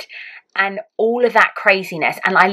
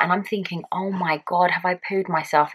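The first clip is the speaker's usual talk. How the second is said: a touch softer, inner aside; hushed thought; 6 dB quieter than usual. Retold or imitated. Mother privately worrying mid-birth, hushed.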